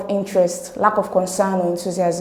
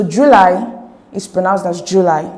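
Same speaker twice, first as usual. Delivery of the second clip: July with LY stressed, slowly demonstrated; stress on second syllable; 5 dB louder than usual. Shown as a demonstration. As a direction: lean slowly on the ending of July. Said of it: "stress is on the second syllable".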